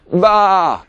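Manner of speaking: loud, high sheep bleat; sheep's comforting bleat. A narrator's reading. Pete the sheep comforting Sean, bleated.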